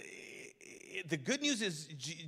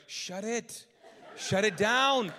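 mock shushing; 2 semitones higher, 7 dB louder, slower than usual. Acted hushing of excited worshipper.

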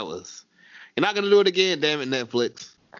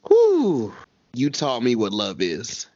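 quoting with emotion; 3 semitones lower, much slower than usual. Retold or imitated. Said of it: "and I quote".

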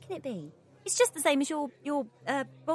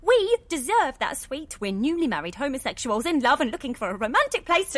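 loud indignant rant; angry; 3 semitones higher, 7 dB louder than usual. Acted. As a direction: rage about the stolen suite. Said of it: "I'm angry".

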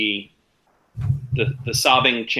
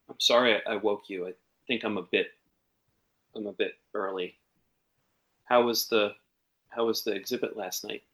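soft, teary voice trying to compose herself; gently weepy, trying to sound normal; quiet tearful apology; 5 dB quieter than usual. Acted. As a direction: sniffle through it, softer than your usual voice. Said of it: "quiet sobbing from the parlor".

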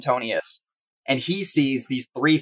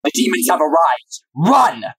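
panicked cry; 3 semitones higher than usual. Acted. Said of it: "she says".

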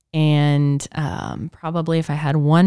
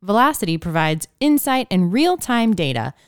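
lively sponsor read; 3 semitones higher than usual. Acted. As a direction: deliver it like a podcast sponsor spot. Reads a sponsor ad.

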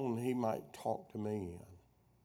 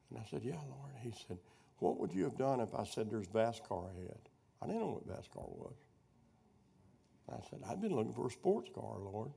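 hushed retelling; 6 dB quieter than usual. Retold or imitated. Quiet retold dialogue with God.

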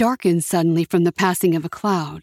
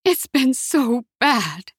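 slow, weary higher sigh; 5 semitones higher, much slower than usual. A narrator's reading. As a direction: let the words sink out on a tired sigh. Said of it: "she sighed".

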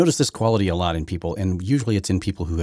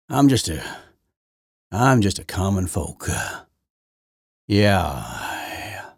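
put-on good old boy; slower than usual. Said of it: "wants to sound like a good old boy".

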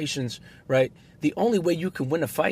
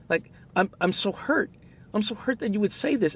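hurt but calm; 6 semitones higher than usual. Retold or imitated. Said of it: "I'm not changing my tone of voice".

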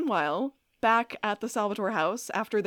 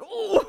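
retold ooh; 12 semitones higher, 6 dB louder than usual. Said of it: "'cause I was like".

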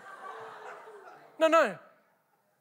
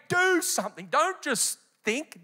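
football coach; 4 semitones higher than usual. Retold or imitated. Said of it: "I love the football coach".

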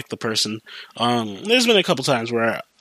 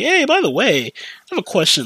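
much higher, louder mock-sweet ask; 10 semitones higher, 3 dB louder than usual. Worker asking the shift supervisor a favor, mock-sweet and high.

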